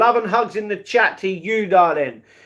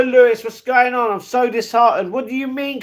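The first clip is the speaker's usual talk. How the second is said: ordinary delivery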